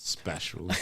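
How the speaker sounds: quiet murmur. Real, not acted. Murmured echo.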